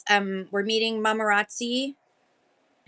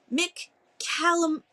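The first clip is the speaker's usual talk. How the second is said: Irish lilt; 7 semitones higher, slower than usual. Shown as a demonstration. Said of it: "That sounds very Irish".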